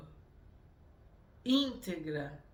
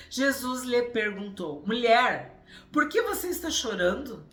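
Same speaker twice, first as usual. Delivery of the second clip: scripture reading; 3 semitones higher, 9 dB louder than usual. Acted. Reads the Gospel passage aloud.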